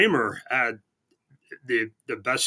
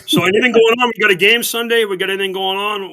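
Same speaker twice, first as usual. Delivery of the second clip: mock excited; 7 semitones higher, 9 dB louder than usual. Mock-excited questions to co-host.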